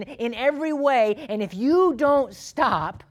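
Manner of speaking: high, loud, emphatic warning to a friend; stern rebuke. Acted. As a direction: confront him forcefully, hammering each point. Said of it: "this faithful brother says to his friend".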